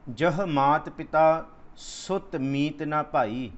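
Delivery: very slow, deliberate recital; scripture recitation. Acted. Preacher reciting gurbani slowly before explaining it. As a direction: lay out every word of the verse.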